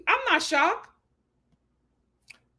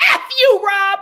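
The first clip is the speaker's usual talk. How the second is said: loud mock curse; 7 semitones higher, 7 dB louder than usual. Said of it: "Leah was like".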